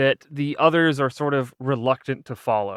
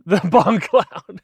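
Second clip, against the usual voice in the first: slow, louder, savoring each word; drawn-out mock reverence; 5 semitones higher, 4 dB louder, much slower than usual. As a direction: stretch it out like a grand title. Repeating a silly chess opening name.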